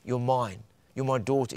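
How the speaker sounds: low-key, soft and reassuring; quiet, affectionate assurance; tender claiming. Acted. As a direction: claim her gently as your own child. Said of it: "how does he say that?".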